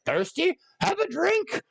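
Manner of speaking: sneering high taunt; mock cruel taunt. Queen taunting the dead prisoner, high and mocking. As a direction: toss off a cruel little jibe.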